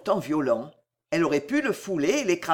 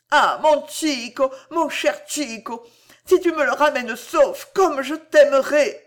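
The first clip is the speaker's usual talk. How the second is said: higher, louder, swelling plea; passionate moan; 7 semitones higher, 5 dB louder than usual.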